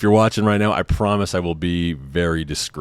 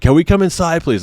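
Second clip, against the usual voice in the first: higher, firm polite request; security guard voice; 10 semitones higher, 4 dB louder than usual. Retold or imitated. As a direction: official asking to enter. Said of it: "It's like".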